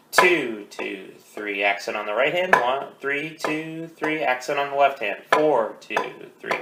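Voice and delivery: a drum teacher counting accents aloud; accented count. Shown as a demonstration. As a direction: count in time, accenting group starts. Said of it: "an accent on the left hand".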